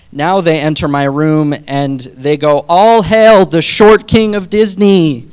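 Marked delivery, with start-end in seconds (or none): 2.7-5.3 slow, loud, higher hail to a king, through a laugh; laughing mock fanfare from the students; mock royal proclamation. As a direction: proclaim it like heralds hailing a king. Students chant greeting at teacher.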